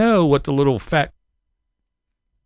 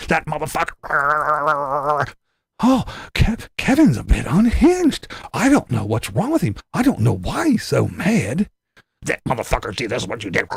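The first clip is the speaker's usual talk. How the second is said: mock rant; 2 semitones lower than usual. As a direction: grumble it like a man losing it off camera.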